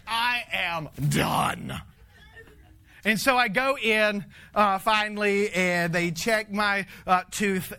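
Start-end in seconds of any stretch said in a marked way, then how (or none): 0.1-1.8 slow, drawn out, fed up; exhausted declaration; worn out. Retold or imitated. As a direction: drag it out, completely spent. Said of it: "I'm like".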